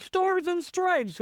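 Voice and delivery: high, drawn-out video game catchphrase; Captain America. Retold or imitated. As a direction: call it like a fighting-game hero's special move. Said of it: "he would say stuff like".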